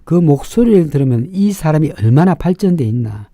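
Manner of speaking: usual speaking voice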